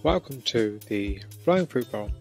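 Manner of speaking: measured, scripted host introduction; podcast intro read. Acted. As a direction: welcome listeners and present the guest, deliberately.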